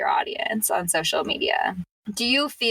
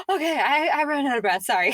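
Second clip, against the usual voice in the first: higher, laughing breathless sorry; laughing apology; 6 semitones higher than usual. Retold or imitated. Guest reenacts apologising on live for losing breath, laughing. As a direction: laugh it off as you catch your breath. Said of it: "I'd be like".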